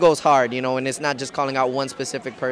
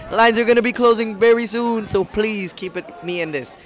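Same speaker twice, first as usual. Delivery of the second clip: a flirty mock Spanish-accented plea to vote; sexy Spanish accent; 3 dB louder than usual. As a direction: lay on a playful seductive Spanish accent for the fans. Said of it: "tell your fans to vote in the sexy Carlito Spanish accent".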